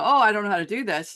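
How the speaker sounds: quick, half-hearted protest; mock helpless whine. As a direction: rush it out like a hammed-up excuse. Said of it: "Because we go".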